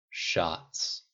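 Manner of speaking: low-key, hushed and grave; solemn agreement. A narrator's reading. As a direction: echo it with mock-grave restraint. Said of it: "Pepper and Rhodey agreed solemnly".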